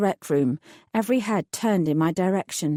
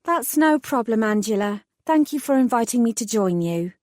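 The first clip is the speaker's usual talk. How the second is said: sweetly polite; 2 semitones higher than usual. Acted. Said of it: "gave the H R manager my best smile".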